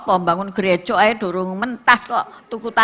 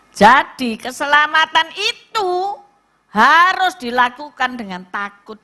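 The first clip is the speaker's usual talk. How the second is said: louder, higher, slow solemn warning; forceful preaching; 4 semitones higher, 4 dB louder than usual. Acted. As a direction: drive the point home.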